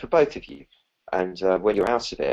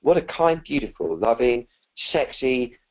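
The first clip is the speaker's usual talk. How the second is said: rising into a higher, gushing kind voice; kindly voice; 5 semitones higher than usual. Shown as a demonstration. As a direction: praise yourself warmly, building up excitement. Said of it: "in a kindly voice".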